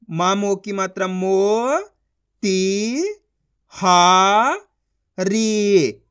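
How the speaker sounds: मो, ती, हा, री each long and separate; syllable sounding out. Shown as a demonstration. Teacher spelling for learners, sounding out. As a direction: stretch मो slowly, then each syllable alone. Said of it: "उनका उच्चारण करो".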